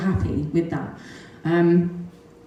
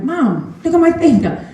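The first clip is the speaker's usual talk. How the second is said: imitating the boy, high and louder; the son calling out, amazed at his finger; a mother mimicking her excited boy; 11 semitones higher, 5 dB louder than usual.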